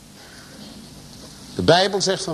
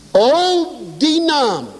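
fervent exclamation; 6 semitones higher, slower than usual. Real, not acted. Preacher exclaims about the name.

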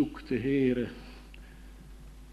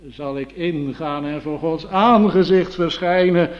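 longing lament; 2 semitones higher, 7 dB louder than usual. Retold or imitated. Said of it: "die het moeten zeggen".

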